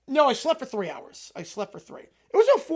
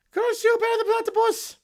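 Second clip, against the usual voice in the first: villain catchphrase; 12 semitones higher, 4 dB louder than usual. Acted. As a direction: bellow the catchphrase like a defeated mad scientist. Catchphrase on its own.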